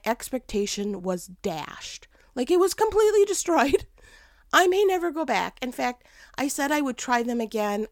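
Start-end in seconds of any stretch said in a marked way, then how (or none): 2.3-5.6 laughing dismay. Real, not acted. Laughing disappointment.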